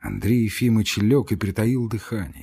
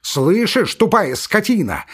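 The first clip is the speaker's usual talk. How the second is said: much higher, louder yelling at the guard; furious shout; 9 semitones higher, 5 dB louder than usual. Acted. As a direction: scream abuse through the door. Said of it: "крикнул Иван Дмитрич".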